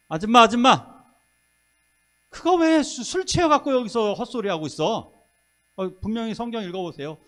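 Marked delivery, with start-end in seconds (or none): 0.1-5.1 higher, louder mock rebuke of a woman; hammed-up scolding priest. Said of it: "엘리 제사장이 뭐라고 얘기하느냐면".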